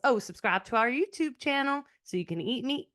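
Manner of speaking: easy Southern sign-off; Southern accent. Shown as a demonstration. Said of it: "in your Southern accent, accent, why don't you sign us off?".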